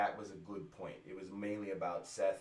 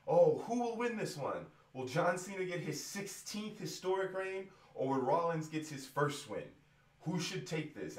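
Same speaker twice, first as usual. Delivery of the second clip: mock announcer voice; 7 semitones higher than usual. Ranter mimicking a commentator hyping the title match, hammed-up. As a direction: ham up the excited ringside announcer. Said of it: "Jerry Lawler says ... he goes".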